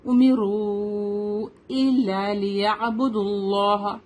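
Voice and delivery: امروا with a heavy "r" and long "roo"; slow chant, full heavy ra in امروا. Shown as a demonstration. Teacher shows heavy ra in the verse, slow chant. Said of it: "را یہاں پہ heavy پڑیں گے".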